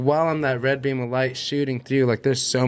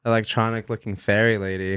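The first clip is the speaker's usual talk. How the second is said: ordinary delivery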